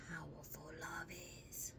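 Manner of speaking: soft breathy whisper. Real, not acted. Telling viewers how powerful love is, whispered. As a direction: drop to a whisper for weight.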